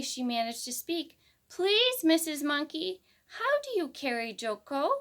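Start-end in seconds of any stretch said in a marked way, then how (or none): 1.5-4.9 breathless, gasping plea; panting after hurrying; out of breath. Acted. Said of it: "almost out of breath".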